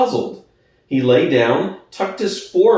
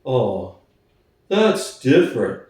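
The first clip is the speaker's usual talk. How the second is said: mild Boxer. Acted. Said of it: "said Boxer".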